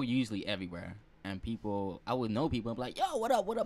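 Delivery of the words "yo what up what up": acted hearty greeting. Acted greeting from people he knows.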